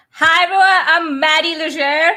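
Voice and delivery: put-on Boston accent, playful; a jokey Boston accent as Maddie; mock Boston accent to the stream. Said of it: "I can't do my Boston accent".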